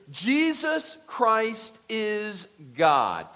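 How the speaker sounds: Jesus Christ is God, each word slow, loud and apart; slow emphatic proclamation. Acted. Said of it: "That's huge".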